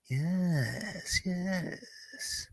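very soft, drawn-out gloating; mock scheming. Relishing Marvel plans with co-host, mock scheming. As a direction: savor each word slowly and very quietly.

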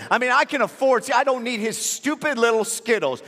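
loud, high, mounting comic bluster; worked-up father protesting too much; indignant rant. Acted. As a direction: boast with exaggerated indignation, hammering key words. Comic rant about not needing Skittles.

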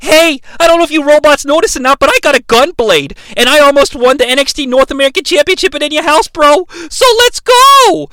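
mock battle bravado. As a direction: hype yourself up for a hammed-up charge. Acted challenge to attacking robots.

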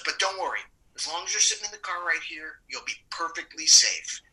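softly imitated safety man soothing the actor; mock reassurance. Safety man calming actor in the car, softly imitated reassurance. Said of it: "And he goes".

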